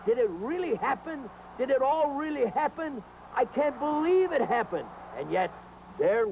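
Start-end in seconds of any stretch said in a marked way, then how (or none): 0.1-4.9 hammed-up amazement; can't believe what he's seeing; disbelief. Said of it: "I say to myself".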